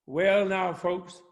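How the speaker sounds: put-on preacher greeting folks in a Southern accent; lightly Southern preacher, leaning on the first word; American Southern accent. Preacher addressing his Sunday congregation, American Southern accent. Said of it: "going into an American Southern accent".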